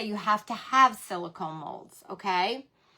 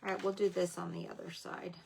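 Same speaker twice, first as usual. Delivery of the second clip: whisper to herself; 4 semitones lower, 13 dB quieter than usual. Real, not acted. Muttering to herself.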